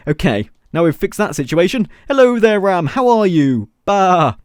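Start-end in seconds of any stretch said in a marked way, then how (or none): 2.1-3.7 higher, louder greeting to an animal; exaggerated singsong hello; playful greeting. 3.8-4.4 drawn-out mock "bah"; sheep bleat. Imitates a sheep.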